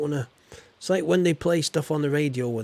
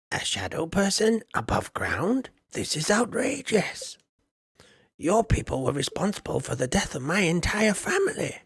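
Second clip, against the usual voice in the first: gruff dwarf; 5 semitones higher than usual. Acted. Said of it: "how does the dwarf talk exactly".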